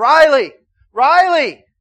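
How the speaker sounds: very loud, high, frantic shout. Telling of a lost child in a crowded store, retelling yelling a name. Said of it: "start yelling".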